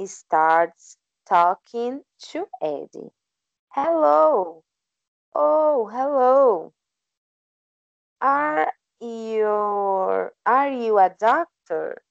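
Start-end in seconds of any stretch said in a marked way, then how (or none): 3.7-12.0 lightly raised, friendly woman asking; a lightly voiced curious woman; woman's voice. Student reads the woman greeting Eddie, lightly voiced. Woman character in read story.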